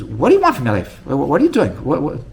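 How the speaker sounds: what on earth is this?; exasperated bafflement. Retold or imitated. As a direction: cut in, acting out a baffled rabbi. Baffled rabbi interrupts rambling boy.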